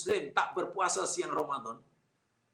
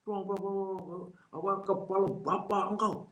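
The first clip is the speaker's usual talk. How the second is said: softer, jeering acted taunt; mock insulting intonation; 3 semitones higher, 3 dB quieter than usual. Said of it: "Tapi coba kalau dia kata". (nada mengejek yang dibuat-buat)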